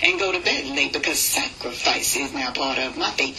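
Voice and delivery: rhythmic, steady poem recital; spoken word poem. Acted. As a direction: ride the rhythm of the verse.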